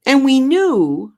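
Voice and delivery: high and loud, insisting; emphatic. Real, not acted. Comic telling the crowd it didn't matter: emphatic. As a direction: push the point hard and high. Passionate point about gay entertainers.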